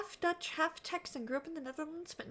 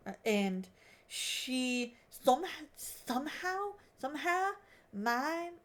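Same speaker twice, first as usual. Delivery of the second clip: put-on Aussie accent sliding into American Southern; accidental Southern accent. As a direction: try Australian and slip into a Southern twang. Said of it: "no, I just went Southern".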